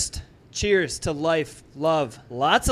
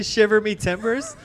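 pirate voice; 5 semitones higher, slower than usual. Retold or imitated. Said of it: "I said I was gonna talk in an Irish accent".

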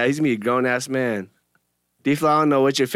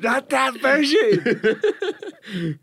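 robotic assistant voice; 11 semitones higher, much slower than usual. Retold or imitated. Mimics voice assistant reply.

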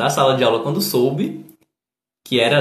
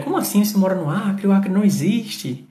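mock teasing; 5 semitones higher than usual. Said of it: "o tipo de coisa que o pessoal brinca".

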